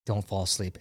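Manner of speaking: hushed urgent whisper to a sleeping recruit; quietly nudging a dozing buddy, hushed; whispered warning. Retold or imitated. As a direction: whisper it so the instructor can't hear. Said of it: "and I'm like".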